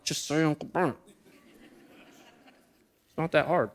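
mock weary parents nudging their kid; exasperated parents. Brother and sister-in-law urge their son, in a tired soft voice. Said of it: "my brother and sister-in-law are like".

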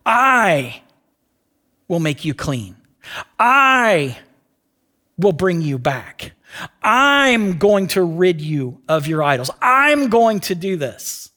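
"I" stretched and stressed, then a pause; emphatic declaration. Acted. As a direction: hit each "I" slowly, then let the rest drop. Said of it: "watch this".

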